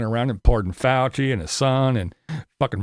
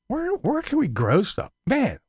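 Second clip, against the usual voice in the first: mock helplessness; 9 semitones higher, slower than usual. Mocking helpless whiners.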